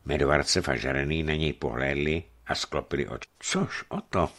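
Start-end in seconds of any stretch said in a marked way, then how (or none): 3.4-4.3 high, lightly sighed words; sighing. A narrator's reading. Žarený answers his companion's plan, sighing. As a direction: say it on a resigned sigh. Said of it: "povzdechl si Žarený".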